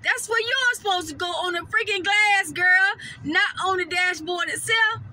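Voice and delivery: mock-exasperated girl, you should have known; scolding myself. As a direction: scold yourself like a sassy friend. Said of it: "And I was like".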